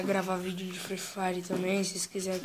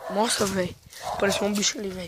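panicked; 5 dB louder, faster than usual. Real, not acted. Monster appears, panicking.

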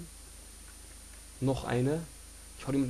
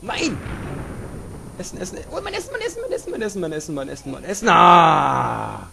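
frantic high wailing; 5 semitones higher, 12 dB louder than usual. Real, not acted. Losing his food, wailing.

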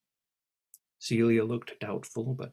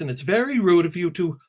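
indignant scolding; 7 semitones higher, 10 dB louder than usual. Acted. Alice scolding Celia.

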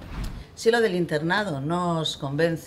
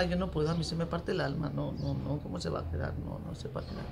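acted soft, low fretting; heartbroken murmur; 3 semitones lower, 8 dB quieter than usual. Parent unable to leave child without presents, fading murmur. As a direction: fade from soft worry to near-whisper.

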